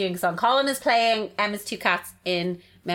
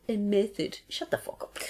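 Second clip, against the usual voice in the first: scornful jab; 6 dB quieter than usual. Real, not acted. Sneering at method actors.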